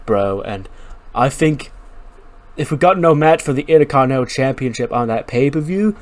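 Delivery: a laid-back surfer bro rambling on; rambling bro dude. Acted. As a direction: drone on like a hyped gym bro. Rambling bro wrestler voiced.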